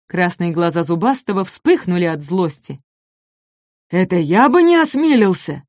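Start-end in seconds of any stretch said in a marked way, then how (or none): 3.9-5.6 higher, offended predator's retort; storybook growl of wounded pride; indignant growl. A narrator's reading. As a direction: growl back at the challenge. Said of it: "зарычал он".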